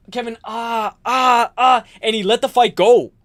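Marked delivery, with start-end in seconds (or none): 0.1-1.8 imitated pained groan. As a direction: groan as if just kicked in the groin. Holland hit in the nuts.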